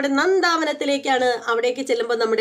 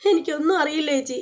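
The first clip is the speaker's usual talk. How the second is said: mock little child; 4 semitones higher than usual. Narrator mimics Nandu telling her sister, mild childish whimper. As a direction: echo her like a pitiful tiny kid, half teasing. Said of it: "പാവം പൊടി കൊച്ച്".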